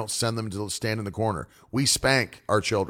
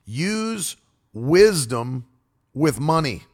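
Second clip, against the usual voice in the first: drawn out; much slower than usual. Acted. Stretched sermon emphasis.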